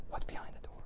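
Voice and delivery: a soft, unvoiced whisper, full of wonder; child's whisper. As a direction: whisper it like a curious little girl. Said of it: "She's gonna ask".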